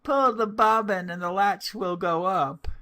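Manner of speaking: high, loud call from the bed; old grandmother calling out loudly. A narrator's reading. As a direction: call out to the door. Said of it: "called out".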